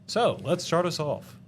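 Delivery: mock game show host kicking off a round; playful put-on announcer, punchy and swooping. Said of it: "I don't know why I'm doing this voice".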